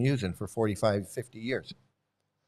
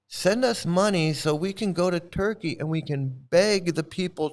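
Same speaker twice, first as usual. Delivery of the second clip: sarcastic beggar impression; mocking monk pitch; 5 semitones higher than usual. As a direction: ham up a fundraiser's hustle. Mock monk asking for money.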